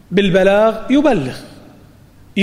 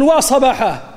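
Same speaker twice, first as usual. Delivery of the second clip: mild mock warning cry, higher pitch; calling out; 5 semitones higher than usual. A man warns his people of an enemy, mild calling out. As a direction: raise the pitch as if calling, without shouting. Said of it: "يصيح، يقول".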